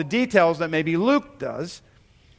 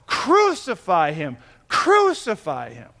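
drawn-out, mild retold shout; mock yell; slower than usual. Congregation prompted to act out the crowd, a mild mock yell. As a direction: imitate a crowd's cry at restrained volume. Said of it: "to, to yell out".

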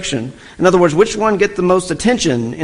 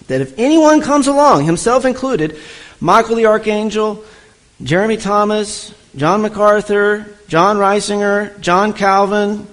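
higher, fired-up sermon build through the names; rising fervor; 5 semitones higher than usual. Real, not acted. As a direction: climb in pitch as each name piles on. Preacher's rising list of authorities.

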